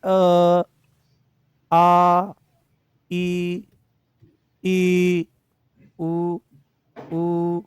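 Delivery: each vowel held long and steady; drawn-out vowels. Shown as a demonstration. Teacher holds vowels for students to feel vibration. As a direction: sustain every vowel so the throat buzzes. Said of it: "मेरे साथ बोलेंगे अ".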